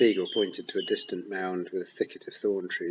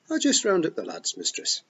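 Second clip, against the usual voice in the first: high, loud Scots pixie, full of pride; excited Feagle boast; 10 semitones higher, 3 dB louder than usual. A narrator's reading. Rob boasts to Tiffany about being born here, loud and proud. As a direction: wee warrior proudly telling his tale.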